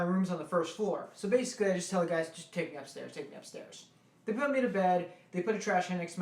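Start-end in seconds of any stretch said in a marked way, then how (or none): 2.3-3.9 soft, fading to a whisper; drunk fading plea. Retold or imitated. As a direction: trail off into a murmur.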